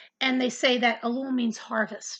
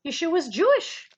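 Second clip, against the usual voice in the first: unintended lilt of a Jewish accent, pitched up; slight Jewish accent; 5 semitones higher, 4 dB louder than usual. Real, not acted. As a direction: slip lightly into a Jewish accent. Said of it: "Jewish accent on that".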